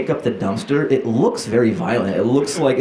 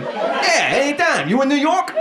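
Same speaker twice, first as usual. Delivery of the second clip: high garbage man voice. Retold or imitated.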